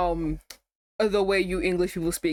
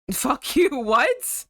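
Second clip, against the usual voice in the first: outburst; 6 semitones higher, 4 dB louder, much slower than usual. Real, not acted. Outburst at game verdict.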